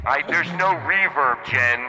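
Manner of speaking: talking with heavy reverb; phone voice in an echoey room; cave echo. Pretend. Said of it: "turn the reverb off when we're talking".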